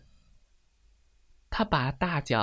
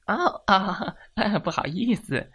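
higher "oh", then sheepish chuckle; embarrassed realisation; 8 semitones higher, 4 dB louder than usual. Acted. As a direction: laugh it off sheepishly. Hen embarrassed, finds glasses on head.

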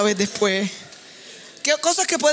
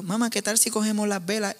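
softly spoken; 5 dB quieter than usual. Retold or imitated. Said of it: "hablándola así bien bajito".

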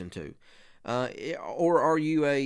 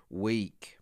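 hushed whisper; 4 semitones lower than usual. Acted. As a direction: breathe the word out in a whisper. Quoting scripture, flesh is weak.

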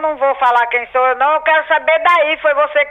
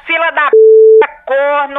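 loud, slow furious curse; angry shout; 5 dB louder, slower than usual. Real, not acted. Grandma yelling at the caller who rang again, furious. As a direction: bellow the insult at him.

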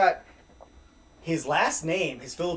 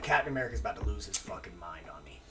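worried thought; 8 semitones lower, 8 dB quieter, faster than usual. Retold or imitated. Inner thought while walking out.

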